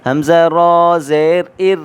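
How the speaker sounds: "ار" with a light, thin r under zer. Shown as a demonstration. Teacher showing the light ra in "ار" with zer. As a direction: keep the r in "ار" thin. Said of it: "باریک کر کے پڑھیں گے".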